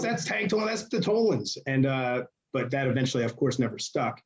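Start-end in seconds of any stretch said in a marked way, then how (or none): 0.0-1.6 high-pitched commentator imitation; raised, put-on commentator voice; mock announcer. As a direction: announce the names like a ringside commentator. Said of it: "So then he goes".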